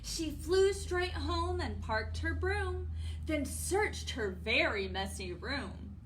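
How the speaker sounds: lively storybook narration; reading to children. A narrator's reading. Storytime host reads the witch's search to children, lively narration. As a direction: carry the rhyme out clearly.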